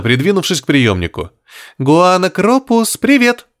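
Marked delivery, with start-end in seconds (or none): 1.8-3.5 high, slow playful greeting. A narrator's reading. Girl playfully greeting the creature in the radio, high. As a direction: tease the creature, drawn out. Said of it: "игриво произнесла Лирена".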